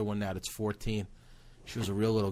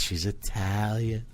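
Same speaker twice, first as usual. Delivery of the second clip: slower, drawn-out echo as grandma; impressed grandma; 3 semitones lower, slower than usual. Retold or imitated. Grandma hearing the girlfriend is Italian, slow impressed imitation. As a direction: imitate grandma savoring the news. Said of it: "She goes".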